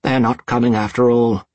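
choking back a sob; choked up. A narrator's reading. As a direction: voice catching on tears. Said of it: "He choked on the words".

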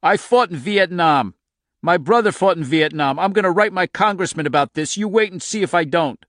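loud, high, indignant outburst; wounded, protesting shout; outraged cry. A narrator's reading. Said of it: "suddenly cried out in shame and outrage".

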